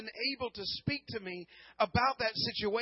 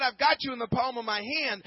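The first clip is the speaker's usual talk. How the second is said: louder, ringing declaration of the promise; proclaimed promise; 3 semitones higher, 5 dB louder than usual. Retold or imitated. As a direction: preach it out with full conviction. Same promise, now proclaimed.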